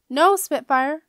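loud, high shout of warning; yell. A narrator's reading. Jenna yelling at the dragon to stop. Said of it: "she yelled".

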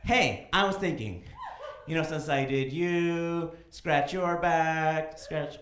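slow, drawn-out, sheepish ask; slow goofy gator. Pretend. Alligator asks partner for a favor, slow and sheepish. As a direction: stretch each word like a lazy gator.

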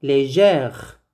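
légère ending on a sounded R; R pronounced. Shown as a demonstration. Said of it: "on prononce le R". (légère, en prononçant le R final)

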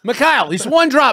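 annoyed Russian host; Russian accent. Acted. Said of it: "doing a great impression of me".

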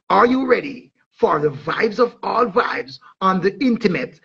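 dancehall promo read, punchy and rolling; hype promo announcer. Acted. Promoter hyping the Intimate show to fans, announcer style. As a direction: sell the show like a radio hype man.

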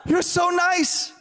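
high, slow, love-struck imitation; gushing ticket lady. Ticket agent swooning over a traveler, high gushing mock voice. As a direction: gush like someone overcome with adoration.

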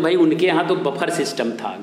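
बफर said as "buh-phar" for buffet; village mispronunciation of buffet. Retold or imitated. Teacher quotes village talk about a wedding, बफर as "buh-phar". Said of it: "गाँव में क्या कहते हैं".

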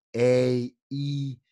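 "E, I" named the English way; English vowels, each held on its own; English vowel names. Shown as a demonstration. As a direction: say "E, I" as English letter sounds, drawn out. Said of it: "En inglés".

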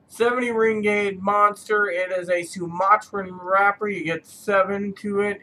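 muffled behind covering hand; speaking through hand over mouth. Real, not acted. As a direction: lips partly blocked by fingers. Seen 0: Hand pressed over mouth throughout the labelled words, lowered by 6.3.

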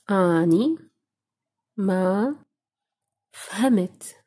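أني ما فهمت split into single words with pauses between. Shown as a demonstration. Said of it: "how to say".

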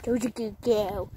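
tender praise for the dog. Real, not acted. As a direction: coo it gently to the dog.

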